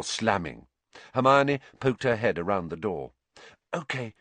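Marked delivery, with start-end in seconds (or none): 3.7-4.1 soft, higher-pitched hushed word; hushed character whisper. A narrator's reading. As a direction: say it softly, as a secret. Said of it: "she whispered".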